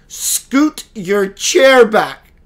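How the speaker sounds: slow, deliberate spirit voice giving an order; slow spirit command. Retold or imitated. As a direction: spell out each word like a calm guide. Voicing the spirit's instruction.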